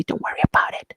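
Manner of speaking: mock conspiratorial whisper. General promising Masemola quietly, a mock conspiratorial whisper. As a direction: breathe it as a secret promise. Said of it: "General said".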